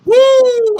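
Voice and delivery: loud high whoop; excited whoop. Real, not acted. Hyped cheer on live stream.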